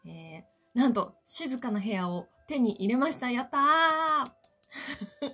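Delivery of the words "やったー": high, drawn-out cheer of delight; excited cheer. Real, not acted. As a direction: cheer it out slowly and happily. Cheering over a quiet room.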